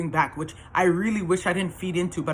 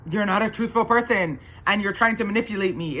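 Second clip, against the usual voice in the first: higher-pitched firm accusation; retold accusation; 4 semitones higher than usual. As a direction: replay arguing back at a partner. Acted argument back at ex.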